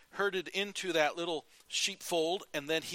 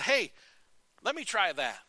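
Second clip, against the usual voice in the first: eager friend; 5 semitones higher, 3 dB louder than usual. Retold or imitated.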